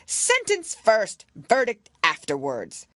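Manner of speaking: very high, slow, loud royal decree; imperious Queen. Acted. Queen dictating courtroom order, high and commanding. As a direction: pronounce it like a haughty queen.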